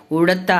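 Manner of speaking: ఉడత with the ఉ kept short; short vowel. Shown as a demonstration. Teacher showing a short vowel in ఉడత. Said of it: "స్వరం తగ్గిస్తూ చెప్పేది".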